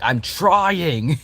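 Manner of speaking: high, strained little plea; whiny Vessel voice. Acted. Vessel pleading while failing. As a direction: squeak it out like a struggling kid.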